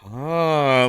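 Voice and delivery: high, loud put-on "aah"; long exaggerated "ah" of feigned understanding; mock listening "ah". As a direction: pretend you followed, with a big drawn-out "ah". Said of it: "and just go".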